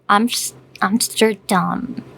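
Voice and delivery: Amsterdam said the Dutch way, ending in a dull "tum"; Dutch pronunciation. Shown as a demonstration. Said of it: "The Dutch would say it".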